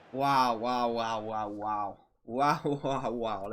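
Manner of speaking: stunned wows. Real, not acted. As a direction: trail off in disbelief. Awed by replay.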